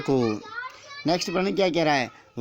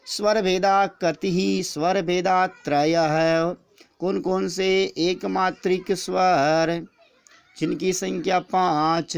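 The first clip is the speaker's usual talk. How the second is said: slow, sing-song lesson recitation; rhythmic recitation; slower than usual. Shown as a demonstration. Teacher reciting answers rhythmically for students, slow chant. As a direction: recite it in a steady rhythm, slowly. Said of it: "इसी प्रकार से लय से पढ़ने पर आनंद आता है".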